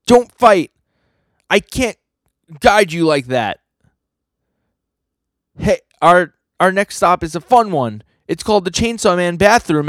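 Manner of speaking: high, loud, eager guide voice; plead, then push the tour along brightly; flustered tour guide. Acted. Guide breaks up a fight to continue the tour, high and flustered.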